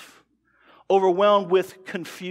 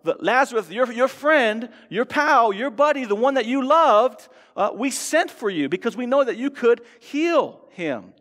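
Martha scolding Jesus in a raised voice; half-acted reproach, voice climbing on each name; mock rebuke; 3 semitones higher than usual. Pastor voicing Martha rebuking Jesus, mock indignant. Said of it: "something along these lines, like".

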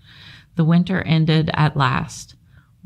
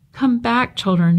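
pleading cry; 7 semitones higher than usual. Acted. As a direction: beg them to come back. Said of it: "he cried".

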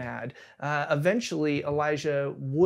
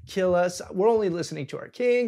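begging captain. Retold or imitated. Frightened captain begs Elijah on the hill, lightly pleading. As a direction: beg him to come down, lightly voiced. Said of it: "like, was begging".

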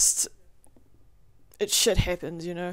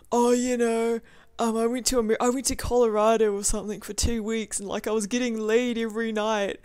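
lightly mocked bragging ex, pitched up; 3 semitones higher than usual. Retelling an ex's boasts, lightly mocking. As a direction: do a mild mock of a show-off.

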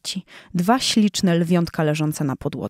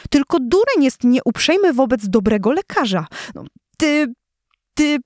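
scolding lioness; 4 semitones higher than usual. Acted. Lioness scolding her husband.

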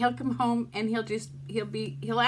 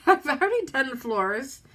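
teary laugh then the words; a rueful laugh as she cries; laughing through tears; 3 semitones higher, 4 dB louder than usual. Real, not acted. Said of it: "sit here and cry on camera".

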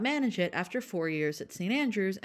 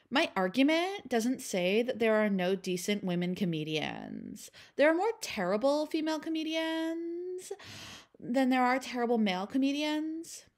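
put-on Valley Girl voice; 5 semitones higher than usual. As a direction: read it like a bored Valley Girl. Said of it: "I will be reading these quotes in a Valley Girl voice".

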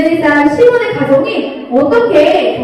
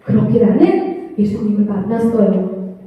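lightly voiced Simon recounting his cross, sing-song storytelling; Simon of Cyrene telling; 3 semitones higher than usual. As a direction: tell it as the man who carried the cross, in a lively sing-song. Teacher plays Simon of Cyrene. (십자가를 진 시몬처럼 노래하듯 이야기하기)

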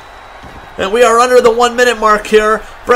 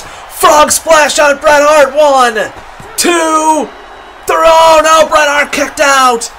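excited play-by-play; 3 semitones higher than usual. Real, not acted. Frog splash, shock kick-out.

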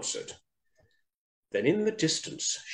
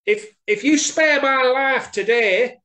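high, loud, earnest mouse; pleading little mouse; 12 semitones higher, 6 dB louder than usual. A narrator's reading. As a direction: bargain for your life in a squeaky voice. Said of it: "said Little Mouse".

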